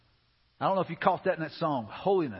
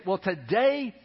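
quoting the lady; much slower than usual. Retold or imitated. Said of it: "And she said".

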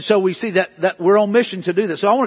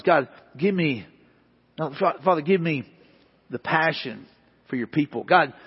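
quiet prayer; 4 semitones lower, 4 dB quieter than usual. Retold or imitated. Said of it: "we're asking God".

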